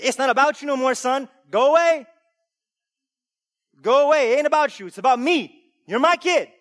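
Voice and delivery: high, loud protective yell; yelling at the kid. Retold or imitated. Father yelling his son away from trouble, loud. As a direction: shout the kid out of the way. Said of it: "tell the kid".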